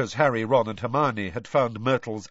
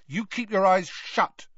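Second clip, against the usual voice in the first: put-on teen boy voice; 10 semitones higher, 4 dB louder than usual. Harry voiced by narrator.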